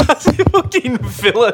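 high, breathless laugh over the words. Real, not acted. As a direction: crack up while speaking. Laughing at friend's impression.

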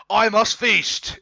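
high, loud and slow monster roar; hungry demon. Acted. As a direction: drag out each word like a ravenous demon. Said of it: "it continues".

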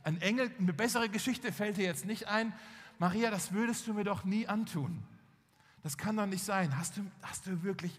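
indignant questioning building to a demand; mildly acted jealous outrage; acted hurt anger. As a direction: confront her, pressing for the truth. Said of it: "er war wütend, er war verletzt".

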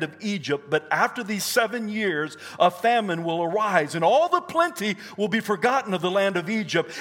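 emphatic declamatory Bible reading; preached scripture. Acted. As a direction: read the prophecy out with rising force.

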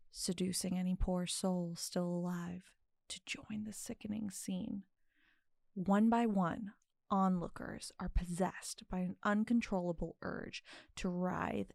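dramatic dark narration; storytelling voice. Acted. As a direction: tell it like a grim fairy tale. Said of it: "I put on my storytelling voice".

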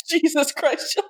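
breaking into laughter mid-word; amused, disbelieving Jesus Christ; laughing exclamation. Real, not acted. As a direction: laugh the words out, drawn slow. Laughing reaction to murder joke.

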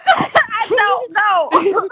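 laughing shout, drawn out. Real, not acted. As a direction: say it through a big laugh. Laughing denial to friend.

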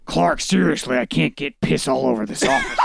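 reading through giggles; can barely get the words out; laughing. Real, not acted.

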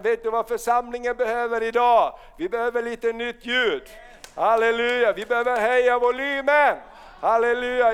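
loud, rousing preacher's call; fiery revival sermon; preaching at full force. Real, not acted. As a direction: stir the congregation up.

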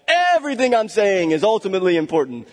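mildly hammed-up self-importance; mock all-caps emphasis. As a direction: imitate someone who types everything in capitals. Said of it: "It's all caps. Like".

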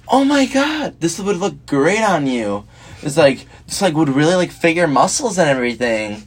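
high, gushing mock lady voice, slowing down; gushing shopper lady. A guy mimics a thrift store lady who gushes about his muscles. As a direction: gush over the shirt like a flirty stranger. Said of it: "she's like".

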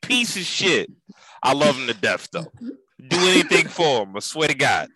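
light Italian-American wiseguy voice; a hint of Italian-American tough-guy talk; Italian-American mobster accent. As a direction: toss it off like a Philly Italian wiseguy. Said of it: "stereotypical voices of Italians".

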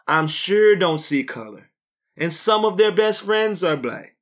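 put-on man doing a valley girl voice; white girl voice. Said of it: "was that your white girl voice?".

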